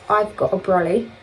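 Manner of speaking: lightly put-on Australian accent. Joking about the brolly, Australian accent. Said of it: "in an Australian accent".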